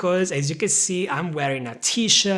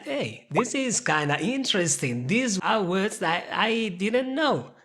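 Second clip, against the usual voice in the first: viewer's inner voice; 2 semitones higher than usual. Acted. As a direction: muse like a viewer discovering something. Voicing a viewer's thought.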